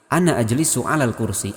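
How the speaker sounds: "ana" with a short last vowel, linked into "ajlisu". Shown as a demonstration. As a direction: run "ana" straight into "ajlisu" without holding it. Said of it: "ananya pendek karena wasol".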